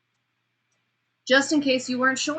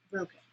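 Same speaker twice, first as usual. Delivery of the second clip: much softer, dropped; pattern break; 10 dB quieter than usual. Shown as a demonstration. Teacher demonstrating a broken speech pattern. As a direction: break the rhythm suddenly. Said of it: "you listened when I broke the pattern".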